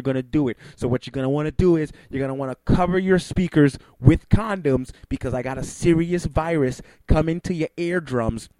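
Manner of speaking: hyped announcer tease of next guest; radio host break. Acted. Radio host teasing listeners before the break, hyped.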